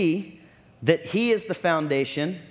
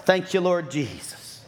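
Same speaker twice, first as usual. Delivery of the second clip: slow, lightly mocked pious thanks; church face; slower than usual. Churchgoer pretending all is well after a fight, slow mock piety. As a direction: draw out a put-on churchy praise. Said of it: "our church face".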